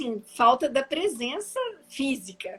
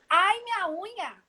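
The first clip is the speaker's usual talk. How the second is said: mock yelp; 7 semitones higher than usual. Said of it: "eu gritava".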